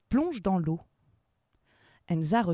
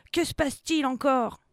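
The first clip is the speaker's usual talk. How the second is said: alarmed; 7 semitones higher, 4 dB louder than usual. Acted. Alarmed captain asks what happens.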